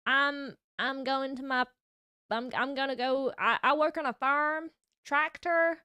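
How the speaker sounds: put-on a weak, half-hearted Texan accent; bad Texan accent. Streamer trying a bad Texan accent for chat. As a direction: put on a hammy Texan drawl, badly. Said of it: "I did my Texan accent before".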